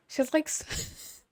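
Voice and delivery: breathy whispered, slow and high; soft fragile whisper. Pretend. Vlogger imitating Suzanne's fragile voice, whispered. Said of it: "sorry, pause".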